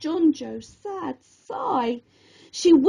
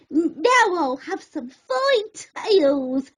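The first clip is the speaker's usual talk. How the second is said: slow, lightly voiced crab; slow sly little crab voice; crab's thought; 3 semitones higher, slower than usual. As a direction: savour it slowly. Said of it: "Snippy thought to himself".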